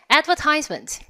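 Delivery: "advertisement" as ad-ver-TISE-ment; long "eye" sound in "advertisement", on TISE; American "advertisement", third syllable like "ties"; American pronunciation. Shown as a demonstration. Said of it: "세 가지 발음이 있겠죠".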